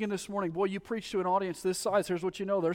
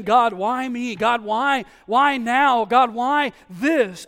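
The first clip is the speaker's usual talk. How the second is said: louder, higher cry of why, last part slowed; pleading cry; 6 semitones higher, 11 dB louder, much slower than usual. Acted. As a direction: cry out to God in protest. Voicing a complaining believer.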